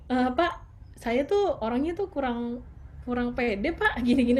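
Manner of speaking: timid, unsure greeting to an important man; not confident. Retold or imitated. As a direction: introduce yourself like you lack confidence. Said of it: "Masa mau ketemu high level tapi".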